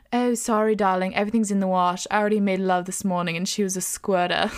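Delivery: badly faked French accent; mock French accent that misses the mark; attempted French accent. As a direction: put on a failed French lover's accent. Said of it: "That wasn't a French accent".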